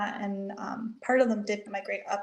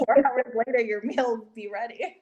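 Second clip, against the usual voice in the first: amused, louder, laugh breaking in; joking mock announcement; 5 dB louder than usual. Guest joking about digging a backyard oven, amused and louder. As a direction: joke it out loud through a laugh.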